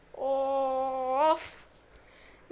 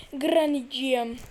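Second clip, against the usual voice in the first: louder sing-song call of Granny'ciğim; louder coaxing call; 6 dB louder than usual. Pretend. Gamer calling to Granny, louder coaxing call.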